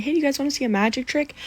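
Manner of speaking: quick, high approach to strangers; chirpy pitch. Pretend. Walking up to strangers with a card trick, chirpy pitch.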